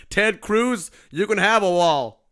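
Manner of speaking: lightly voiced Trump handing out favors; Trump impression. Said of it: "your Donald Trump accent".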